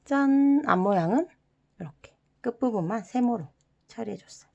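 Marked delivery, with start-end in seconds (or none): 0.0-0.6 ta-da. Real, not acted. Revealing the folded result.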